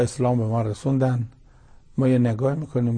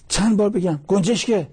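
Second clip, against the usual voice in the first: angry shout; 8 semitones higher than usual. Retold or imitated. Son yells at his old father in the park, angry shout. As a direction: snap at him, fed up and furious. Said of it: "این پسر سر پیرمرد داد زد".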